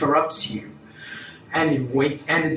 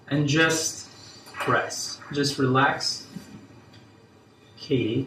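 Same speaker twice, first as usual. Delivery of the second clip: guided meditation. Acted. Leads a relaxation exercise.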